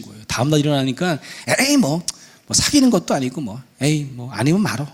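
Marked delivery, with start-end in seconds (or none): 1.6-4.9 light, dismissive acted child; shrugging it off. Daughter next morning over her crush, breezy dismissal. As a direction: brush it off with a breezy start. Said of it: "거뜬해집니다".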